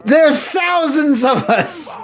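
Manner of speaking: wrestler promo voice. Pretend. Continues wrestler bit.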